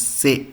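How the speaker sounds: German letter C said "Se", like "seh"; pronuncia tedesca. Shown as a demonstration. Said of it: "C in English is pronunciation as".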